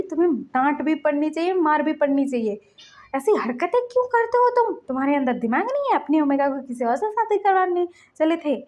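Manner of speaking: aunt scolding her nephew. Retold or imitated. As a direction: tell him off hard.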